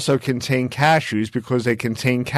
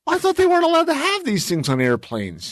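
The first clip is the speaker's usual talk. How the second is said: retold surprise; 13 semitones higher than usual. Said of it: "It was like".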